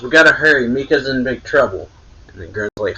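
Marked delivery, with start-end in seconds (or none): 0.0-1.9 urgent retold call, higher and lifted; mild mock yell. Yu urges everyone to hurry to Mika, mild mock yell. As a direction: imitate rallying the others, half-yelled. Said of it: "And then Yu yells".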